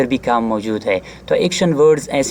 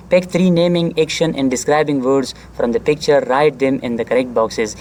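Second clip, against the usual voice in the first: teacher reading an exercise aloud slowly; slow textbook reading; much slower than usual. Shown as a demonstration. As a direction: read the English line out slowly and deliberately. Reads textbook instruction aloud.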